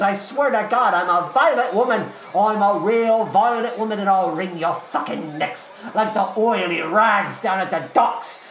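ranting, shouted cockney menace; furious cockney threats. Acted. Eliza threatens the crowd blocking her view, furious cockney rant. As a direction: rage wildly, with shouted bursts.

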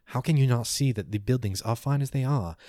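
lightly voiced lofty scholar; a hint of a pompous elder; arguing elder. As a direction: chide a brother with mild exasperation. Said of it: "One next to him goes".

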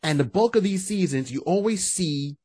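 ordinary talk

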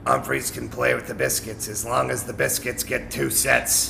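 lightly put-on bandmate voice; a hint of a friend's impression; Brownie voice. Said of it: "I gotta get a little Brownie voice in here".

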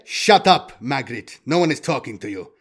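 loud opening, then easing; sharp rebuke. Acted. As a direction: silence an underling. Brill silences Magritte.

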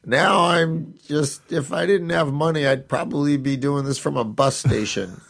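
high-pitched whiny ditzy woman; Victoria Jackson. Retold or imitated. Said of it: "her high-pitched, whiny voice going".

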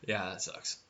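talking through a yawn. Real, not acted. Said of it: "Sorry, I'm yawning".

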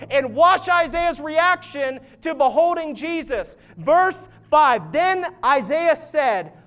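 emphatic sermon delivery; impassioned preaching. Real, not acted. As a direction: build urgently toward the scripture quote. Preaching at raised intensity.

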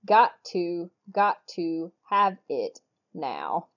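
lightly mocking, unimpressed drone; deadpan it, totally unimpressed. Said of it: "in her unimpressed voice".

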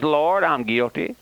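tearful sinner's confession, a break of crying in it; a repentant old man's teary prayer; pleading sinner. Acted. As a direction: plead with the Lord, guilt catching in the throat. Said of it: "comes to the place where he says".

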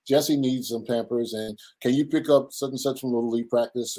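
a hint of a busy wife listing chores; wife handing her husband a list of errands, lightly voiced; imitating the wife. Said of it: "She's gonna say".

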